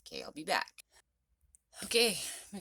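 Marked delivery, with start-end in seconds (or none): 0.1-0.8 whispering. Real, not acted. Whispered sign-off.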